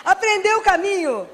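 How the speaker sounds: laughs through a teasing punchline; chuckling, drawn-out jab; laughing. Real, not acted. Teasing a friend about her husband, laughing.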